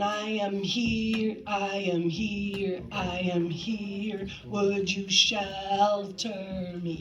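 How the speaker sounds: slow, steady, emphatic line; slow emphatic model. Shown as a demonstration. Director models the final line slowly for the choir. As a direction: bounce off each beat, slowly. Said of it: "all of that needs to go".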